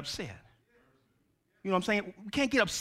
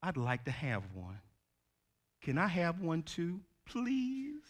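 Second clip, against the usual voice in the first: put-on much softer, low small-child plea; humble quiet child; 4 semitones lower, 10 dB quieter than usual. Child quietly asking mama for a toy, soft and humble. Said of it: "humbly and quietly says".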